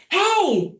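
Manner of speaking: high-pitched hey through a door; retold calling out. Woman knocking on suite door, calling out high. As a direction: call out high to get attention.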